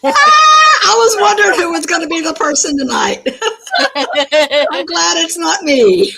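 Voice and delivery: high, loud and laughing. Real, not acted. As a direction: laugh while talking. Laughing at tipsy friend.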